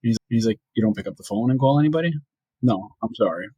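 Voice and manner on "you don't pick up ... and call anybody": put-on quick, mild New York accent on the partner's line; a hint of New Yorker, fast. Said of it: "I love how you had the accent".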